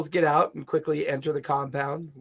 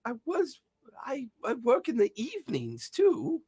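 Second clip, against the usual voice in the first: put-on old man voice; 9 semitones higher than usual. Grumbles defends himself.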